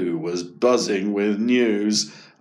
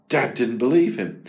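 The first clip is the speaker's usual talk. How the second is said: plain reading voice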